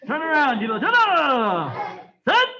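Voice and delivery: loud, high drill call; shouted command. Real, not acted. Instructor ordering students to turn around, shouted. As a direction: call it across the class.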